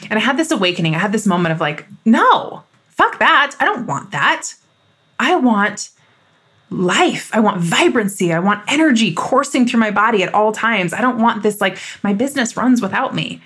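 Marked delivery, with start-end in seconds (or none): 2.1-13.4 fired-up outburst. Retold or imitated. Coach to listeners recalling her awakening, fired up and defiant. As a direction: burst out with it, done with playing small.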